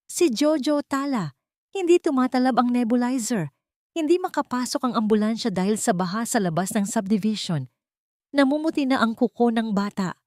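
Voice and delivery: high, urgent pleading; frantic plea. Acted. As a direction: rush the bad news, begging her to help. Cook pleads child is dying.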